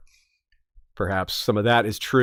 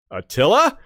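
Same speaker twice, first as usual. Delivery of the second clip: raised questioning lift on the name; listeners guessing; 4 semitones higher than usual. Acted. Host voices listeners guessing the Hun's name, questioning. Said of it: "and you'll be like".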